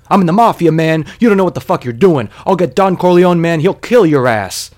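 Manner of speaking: loud, high-pitched angry shouting; screamed threat. Acted. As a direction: scream threats like an acted-out raging tough guy. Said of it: "and he screams".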